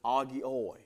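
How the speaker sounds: agioi said as ah-GEE-oy; Greek plural agioi. Shown as a demonstration. Preacher sounding out the plural agioi. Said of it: "he calls them agioi".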